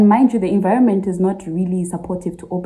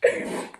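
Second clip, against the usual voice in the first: nervous laugh; 7 dB quieter than usual. Real, not acted. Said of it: "I'm laughing now".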